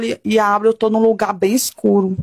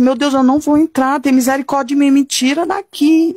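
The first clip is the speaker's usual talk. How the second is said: retold terrified cry; 4 semitones higher than usual. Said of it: "Eu gritava".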